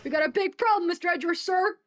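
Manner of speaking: gruff-hearted detective reporting to his boss; eager detective. Acted. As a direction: burst in with urgent news. Voices the detective character.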